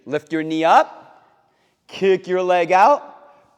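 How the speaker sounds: slow drill count. Shown as a demonstration. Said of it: "leading slow kick drill".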